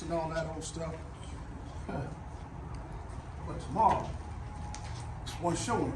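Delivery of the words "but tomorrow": dramatic hush. Real, not acted. Dramatic slow whisper.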